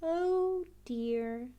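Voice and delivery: a hint of a fretting mother; lightly voiced mum; Mummy Pig worried by the flood, mild dismay. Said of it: "says Mummy Pig".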